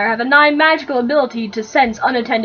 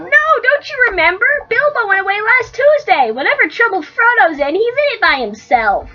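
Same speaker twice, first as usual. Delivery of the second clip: slightly raised, earnest hobbit; reminding a friend, a bit anxious; a hint of worried Merry; lightly voiced Merry; 5 semitones higher than usual. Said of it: "You be Merry".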